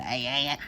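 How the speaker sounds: loud imitated sob bursts; short mock-crying bleats; almost crying. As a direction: mimic the start of a cry. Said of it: "She almost did the".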